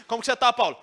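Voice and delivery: a friend calling out a question loudly; loud, showy greeting. Shown as a demonstration. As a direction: hail Paulo loudly, the wrong way. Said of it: "ele não ficou assim".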